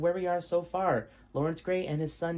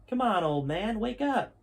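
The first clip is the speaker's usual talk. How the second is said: put-on demanding teen; 7 semitones higher than usual. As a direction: bark at the sleeping old man to get up. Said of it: "demanded Jason".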